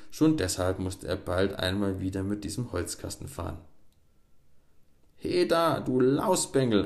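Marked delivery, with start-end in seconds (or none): 5.2-6.8 high, loud call across the water; shouting from the shore. A narrator's reading. Miller shouts at the boy in his boat, angry call. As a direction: yell at the boy from the bank. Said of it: "erscholl es da plötzlich vom Ufer her".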